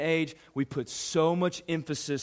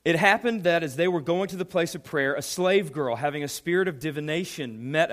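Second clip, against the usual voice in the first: reading the verse aloud, a bit raised; scripture reading; 2 semitones higher, 3 dB louder than usual. Acted. Pastor reads Acts to the youth, a little raised. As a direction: lift the Bible text above the talk.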